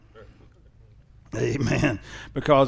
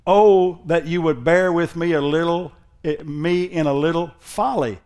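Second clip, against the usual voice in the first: mildly sarcastic scripture reading; 3 semitones higher, slower than usual. Acted. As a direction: read it with dry irony. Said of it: "We're still talking about Paul's sarcasm".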